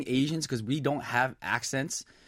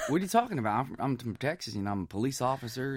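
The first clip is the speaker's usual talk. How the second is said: softer imitation Texan accent; 5 dB quieter, faster than usual. Imitating a puzzled Texan cousin, Texan accent. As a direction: Texas police officer's twang, put on. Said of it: "Is that how you actually speak?".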